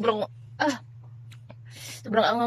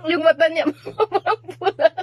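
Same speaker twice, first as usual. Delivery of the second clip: laughing; 5 dB louder than usual. Real, not acted. Laughing recalling his face.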